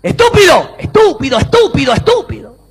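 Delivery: high yell, then repeated echoes; shouted insult with echo. Acted. Boy insults his echo in the mountains, calling out. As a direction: yell the insult and bounce it back.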